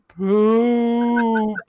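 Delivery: put-on high, drawn-out little-kid voice; toddler voice. Mom imitating her sick daughter's answer, high toddler poop. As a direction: say it like a sincere two-year-old. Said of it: "She goes".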